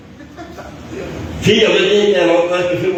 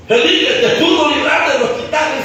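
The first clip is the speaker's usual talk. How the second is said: high, raised preacher's cry; preaching; 11 semitones higher than usual. Real, not acted. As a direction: preach it out to the listeners. Preaches at full force.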